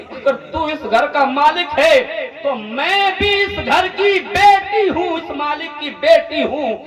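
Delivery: put-on slow, sweet, innocent young daughter; sweet little girl's voice. Daughter answers her father through the closed door, sweetly and slowly. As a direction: speak like a gentle little girl behind the door. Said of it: "بڑی سریلی آواز تھی، بڑی میٹھی آواز تھی".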